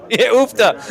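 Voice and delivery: hammed-up Minnesota exclamation; Minnesota accent. Commentator joking with co-host, broad Minnesota accent. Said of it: "oof, that's Minnesota".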